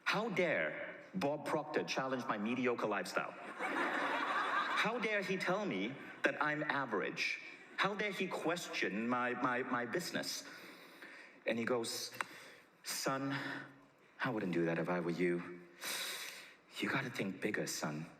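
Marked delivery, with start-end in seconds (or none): 0.0-10.4 retold pissed off. Speaker rages inwardly at Bob's challenge, mock-indignant outburst. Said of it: "now I am pissed". 12.8-18.0 understated sage, dropping low; Bob Proctor. Retold or imitated. Bob warns the speaker to think bigger, low sage delivery. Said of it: "this is gonna be profound wisdom".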